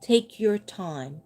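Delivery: slow, drawn-out take your time. Shown as a demonstration. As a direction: ease each word out slowly. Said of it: "Slow it down".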